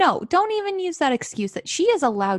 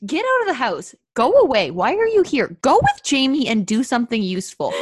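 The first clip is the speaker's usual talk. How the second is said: mock shouting; 4 dB louder than usual. Ordering Murtagh out of the house.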